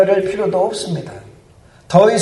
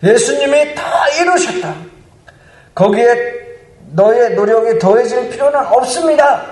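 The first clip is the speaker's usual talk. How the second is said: raised, higher-pitched declaration; gospel proclamation; 4 semitones higher than usual. Acted. Preacher declaring Christ's finished work to the congregation, emphatic proclamation. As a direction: proclaim it with full conviction. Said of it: "복음은 선포합니다".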